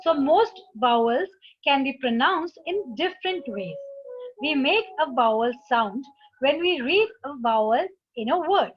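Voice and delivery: slow, careful reading of an English instruction; slow textbook reading. Acted. Teacher reading the book to students, slowly. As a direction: read it out slowly for the class.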